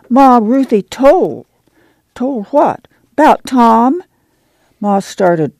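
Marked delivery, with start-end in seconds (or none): 0.1-4.0 put-on high anxious boy; small boy, nervous and urgent; child voice.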